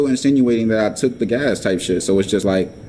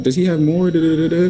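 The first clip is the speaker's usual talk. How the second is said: higher imitation of someone asking; eager questioner; 7 semitones higher than usual. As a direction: mimic the question high, then rattle da-da-da. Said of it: "asking me, like".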